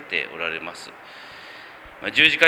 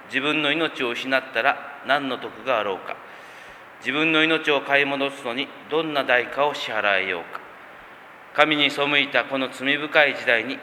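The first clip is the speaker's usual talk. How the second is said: scripture reading. Acted. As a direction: read the Gospel aloud with solemn weight.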